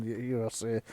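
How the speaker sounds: normal talking voice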